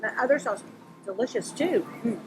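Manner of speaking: talking through a mouthful of crab cake; words round a bite of food; mouth full. Real, not acted. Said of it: "I'm not supposed to talk with my mouth full".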